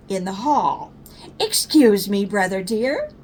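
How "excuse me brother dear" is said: hushed, overdone courtesy; whispered mock politeness. Sister whispering to brother in the hall, overdone politeness. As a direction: breathe it out with exaggerated manners.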